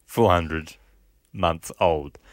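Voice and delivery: criminal voice. Pretend. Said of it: "why am I doing his voice?".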